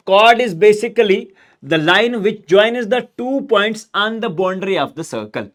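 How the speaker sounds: each word spaced out slowly for notes; slow dictation. Shown as a demonstration. Teacher dictating a definition to students, slowly.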